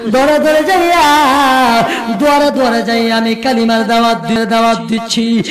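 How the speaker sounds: melodic sermon chant swelling into high cries; impassioned waz preaching. Acted. Nephew refusing his uncle's offers, in impassioned preaching chant. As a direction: preach it as a pleading chant with stretched endings.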